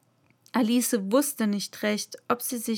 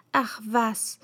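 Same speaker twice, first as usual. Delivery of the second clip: whispered thought. Acted. Alice thinking to herself.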